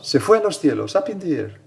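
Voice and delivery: put-on high, loud little-girl voice; little American girl. Priest quoting a little girl explaining the Assumption, high child voice. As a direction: imitate a small girl telling it excitedly, pitched right up. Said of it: "Recuerdo una niña graciosa americana".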